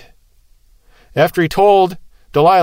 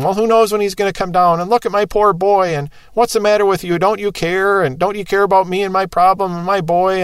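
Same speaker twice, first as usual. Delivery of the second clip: reproachful father, pitched up; guilt-tripping father; 4 semitones higher than usual. Retold or imitated. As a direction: lay the guilt on them, higher voice. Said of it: "gave them guilt trip".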